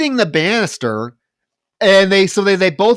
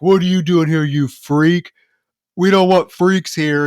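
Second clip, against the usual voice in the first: louder sneering bully voice; bully taunt; 3 semitones higher, 4 dB louder than usual. Retold or imitated. Bar bully taunting the outsider, mock sneering. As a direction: jeer at him like a bar bully. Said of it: "comes over to the table and is like".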